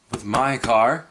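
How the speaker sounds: robotic navigation voice; GPS voice. Shown as a demonstration. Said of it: "I'm talking like a GPS".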